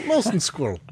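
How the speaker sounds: the same line, with a heavier put-on Russian voice; thick fake Russian, hammed up; mock Russian accent. A second friend on the podcast echoes it in a Russian accent. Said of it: "an American trying to play a Russian".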